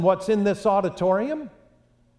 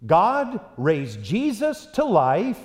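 slow proclamation; slower than usual. Retold or imitated. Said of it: "in that same sermon to say the following".

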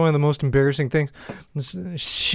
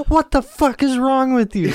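from another room; 8 semitones higher, slower than usual. Retold or imitated. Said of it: "she just yells".

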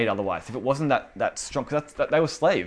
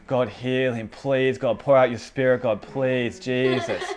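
mock pleading prayer; persuading God; slower than usual. Worshipper trying to persuade God to heal, mock imploring. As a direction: imitate someone coaxing God with repeated appeals. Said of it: "as in we're trying to persuade him to move".

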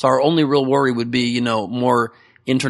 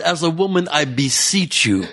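mock solemn quote; 2 semitones higher, slower than usual. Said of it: "best quote ever in our podcast".

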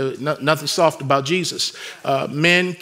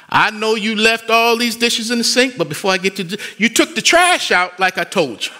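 higher-pitched mock parent listing chores, slowing on the nasty dishes; parent correcting child; 6 semitones higher than usual. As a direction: play a parent praising first, then eyeing the dirty dishes. Parent scolding child about dishes.

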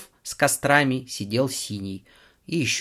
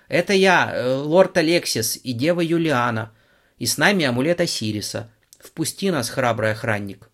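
grand, ceremonial call, louder; solemn shout; 3 semitones higher, 4 dB louder than usual. Acted. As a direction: announce yourselves with pomp. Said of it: "торжественно прокричал Лёха". (торжественный возглас)

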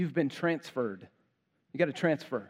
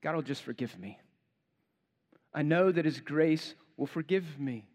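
mock casual excuse. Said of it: "and you go".

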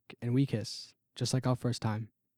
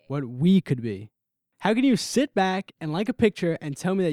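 angry confrontation; 6 dB louder than usual. Acted. Confronting Leslie about the photo.

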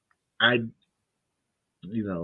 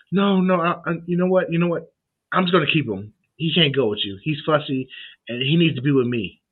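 higher, louder mock mother refusing; mock stubborn mom; 5 semitones higher, 4 dB louder than usual. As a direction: play the mom digging her heels in. Retold mother refusing the weekend.

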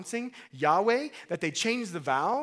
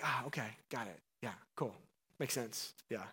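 mock agreeing Moses; 6 semitones lower, 11 dB quieter than usual. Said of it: "You think Moses is like".

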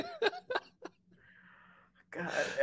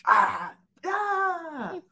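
high, drawn-out pretend wail; mock scream; 9 semitones higher than usual. Joking about the last meal failing, high mock scream. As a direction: let out a long mock cry.

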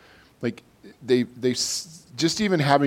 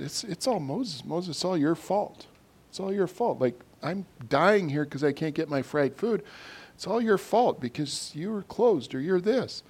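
mock grumbling; 3 semitones higher, 5 dB quieter than usual. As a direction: grumble under it, pinning the blame on someone. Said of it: "I'm really good at grumbling".

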